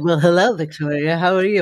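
lightly imitating her own odd hello; mock own greeting. Host mocks her own greeting to the guest, lightly hammed. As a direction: replay the awkward host greeting, a touch hammed. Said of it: "the way I just said".

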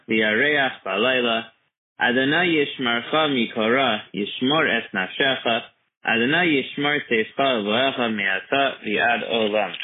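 slow, carefully enunciated prayer recitation; slowly. Acted. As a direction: say each word slowly and clearly. Recites psalm aloud slowly.

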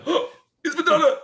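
very high, loud starstruck squeal; starstruck gasp. Retold or imitated. Flatmate spotting a famous singer on the stairs, very high loud squeal. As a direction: squeal it like a dazzled fan.

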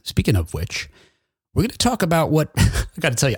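winded from a quick dash; breathing hard between words. Real, not acted. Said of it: "I'm out of breath".

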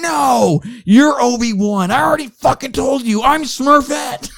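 put-on high-pitched indignant little girl voice; loud, high, hammed-up little blue girl tantrum; Smurfette. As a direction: squeal the angry protest in a tiny cartoon-girl falsetto. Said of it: "In my best little blue six-inch girl voice".

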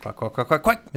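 quacking like a duck. Retold or imitated. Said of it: "starts quacking at his former boss".

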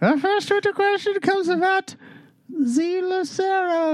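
put-on old wizard. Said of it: "I don't know if people can understand you".

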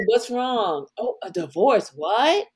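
mock-innocent questioning; feigned ignorance. Shown as a demonstration. Showing how to hide gossip you know, acting clueless. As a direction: play dumb, as if it's news. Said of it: "always act like you don't know".

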